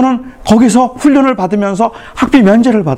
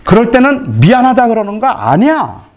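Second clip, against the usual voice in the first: raised, heated scolding of a son; retold scolding; 4 semitones higher than usual. Father scolding his son over an apology, heated. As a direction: scold the boy as a frustrated father. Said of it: "제가 화가 나서 제 아들한테 제가 소리를 쳤어요".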